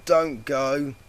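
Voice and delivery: high, loud plaintive ask; pleading ask. A narrator's reading. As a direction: ask with puppy dog eyes. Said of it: "she asked".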